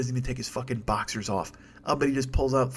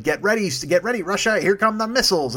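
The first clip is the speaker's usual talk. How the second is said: mock Trump; 6 semitones higher, 4 dB louder than usual. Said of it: "and he's like".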